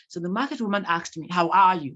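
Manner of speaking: careful, proper formal diction; clear diction. Shown as a demonstration. Speaker wrongly quoting a market woman in polished diction, clear diction. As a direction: quote her in your own polished speech. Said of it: "you're speaking with clear diction".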